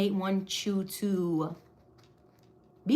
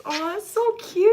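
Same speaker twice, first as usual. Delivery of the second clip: high, louder gush; 10 semitones higher, 6 dB louder than usual. Real, not acted. Gushing to viewers about a pet name. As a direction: squeal it with delight.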